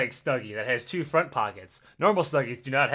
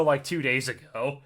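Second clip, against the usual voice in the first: voice cracking; 2 semitones lower than usual. Real, not acted. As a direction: voice cracks on the words. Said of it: "Oh, look, my voice just cracked a little bit right there".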